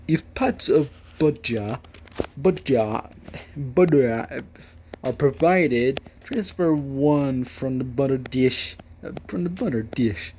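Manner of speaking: fancy cultured man. Acted. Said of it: "I need to speak like a fancy cultured man".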